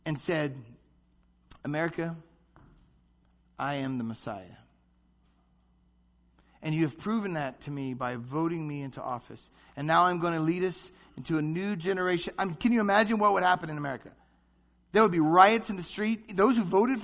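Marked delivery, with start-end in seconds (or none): 1.6-12.3 mock presidential address. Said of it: "if Obama came on television and said".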